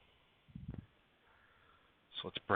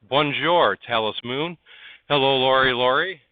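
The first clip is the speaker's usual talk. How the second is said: loud, higher, bright hello to viewers; cheery greeting; 6 semitones higher, 9 dB louder than usual. Real, not acted. Streamer greeting chat viewers by name, loud and cheery. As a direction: call out the names like welcoming friends.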